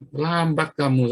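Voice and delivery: slow, teasing "too late"; mock inner taunt. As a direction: stretch it out as a gloating comeback. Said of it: "saya bilang dalam hati saya".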